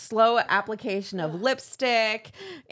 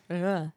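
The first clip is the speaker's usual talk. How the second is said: disgusted groan; 5 semitones lower, 4 dB quieter than usual. Retold or imitated. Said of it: "but I'm like".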